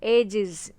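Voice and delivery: "एजेस" with a buzzed "iz" ending; buzzing ending. Shown as a demonstration. Teacher showing the plural sound, "एजेस" ending in buzzed iz. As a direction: let the end of "एजेस" buzz as iz. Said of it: "आईएस का buzzing sound आ रहा है".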